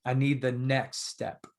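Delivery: soft, earnest plea to the Lord; understated heartfelt prayer; quiet prayer. Retold or imitated. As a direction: pray it under your breath. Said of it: "I said".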